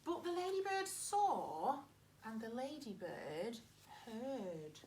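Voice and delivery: put-on lively read-aloud for young children; story narration. Teacher reading a farm story to her pupils, lively. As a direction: read it like a picture book to a class.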